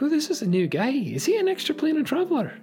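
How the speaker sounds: high Scottish crowd murmuring with curiosity; thick Scottish accent. Acted. Tavern locals wondering about the new guy, Scottish accent. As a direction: gossip like Scottish pub regulars, pitched high. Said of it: "thick Scottish accents".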